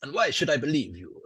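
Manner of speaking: a slight Italian tinge; slightly Italian. Acted. Game master as doubting lanista, slightly Italian accent. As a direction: let a little Italian slip in. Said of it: "That's gone slightly Italian there".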